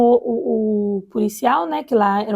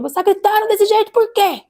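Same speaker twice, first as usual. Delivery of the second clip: higher, louder mock nurse voice; retold nurse scolding; 9 semitones higher, 3 dB louder than usual. Nurse scolding a screaming woman in labor, higher and louder mock voice. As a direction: imitate the nurse chiding a screaming mother. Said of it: "Falou pra ela".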